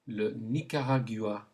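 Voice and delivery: "Le Nicaragua" in French with throat r and hard g; French pronunciation. Shown as a demonstration. Teacher gives learners a country to repeat, French pronunciation. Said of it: "Say it".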